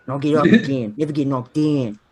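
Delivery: thick mock Australian accent; Australian steelworker. Steel mill worker off to the pub, Australian accent. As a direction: play an Australian guy just off shift. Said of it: "it's like a Australian guy".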